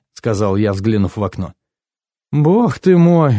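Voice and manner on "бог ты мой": slow, high exclamation; startled exclamation. A narrator's reading. Woman noticing how late it is, exclaiming. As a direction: exclaim in character, stretched and high-pitched. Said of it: "воскликнула Энни".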